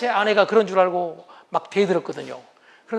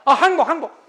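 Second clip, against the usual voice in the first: loud pleading give-in; hammed-up surrender to the wife; mock surrender; 5 dB louder than usual. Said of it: "겉으로는". (아내에게 과장되게 항복하는 남편)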